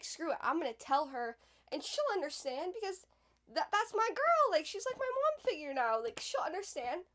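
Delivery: mock naive excitement, she'll understand; hopeful inner voice. Retelling her own hopeful thought.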